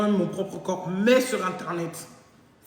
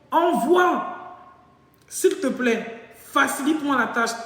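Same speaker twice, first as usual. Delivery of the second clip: mock pleading; 5 semitones higher, 4 dB louder, slower than usual. Boyfriend begging her to send.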